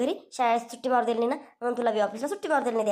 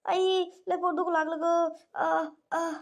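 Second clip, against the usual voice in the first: faked pain; 4 semitones higher, slower than usual. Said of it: "नाटकं करतोय तो".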